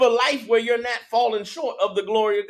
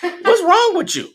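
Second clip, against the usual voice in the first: higher, louder mocking pimp, laughing through it; preacher imitating a pimp, amused and loud; pimp talk; 9 semitones higher, 5 dB louder than usual. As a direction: tease her like a pimp, half laughing. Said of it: "that's how pimps talk to hoes".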